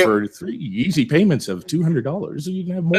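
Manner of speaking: hammed-up stage voice for a sales pitch; theater voice. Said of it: "it's my theater voice".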